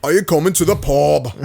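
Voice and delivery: lightly put-on Cockney; Cockney accent. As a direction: imitate a Cockney at his local. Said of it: "the Cockney accents or whatever".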